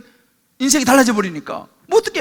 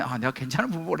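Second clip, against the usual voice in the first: low, soft musing; parent's private thought; 10 semitones lower, 11 dB quieter than usual. Acted. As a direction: voice a parent quietly reassured, as if to oneself. (혼자 생각하듯 낮고 작게)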